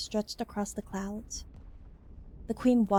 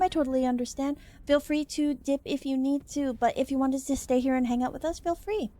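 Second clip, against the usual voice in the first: lightly raised, bubbly streamer voice; a hint of a cheery VTuber greeting; cute anime streamer; 5 semitones higher than usual. Streamer greeting raiders, bright.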